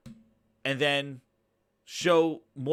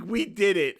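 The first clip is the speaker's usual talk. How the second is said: imitated celebrating fan; 5 semitones higher, 6 dB louder than usual. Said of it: "when fucking people go".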